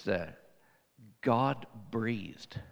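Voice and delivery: awed whisper. Acted. Preacher to congregation about the inspired Word, awed whisper. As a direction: breathe it out in awe.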